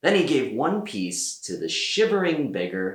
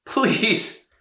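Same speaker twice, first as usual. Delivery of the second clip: high, pleading cry; townsfolk begging; 13 semitones higher, 4 dB louder than usual. A narrator's reading. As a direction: plead with him as a desperate crowd.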